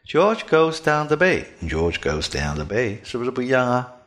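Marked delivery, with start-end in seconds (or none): 0.0-3.0 "George goes down the bay" done the wrong way, consonants devoiced; "George goes down the bay" with a thin voice and voiceless ch, k, p. Shown as a demonstration. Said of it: "读清辅音，一定声音发飘".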